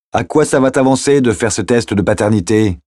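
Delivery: mildly projected challenge over noise. Acted. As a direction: pitch it up to carry over traffic. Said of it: "en haussant la voix".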